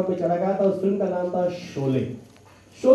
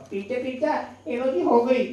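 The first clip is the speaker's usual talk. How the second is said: put-on child voice; 5 semitones higher than usual. Raju again.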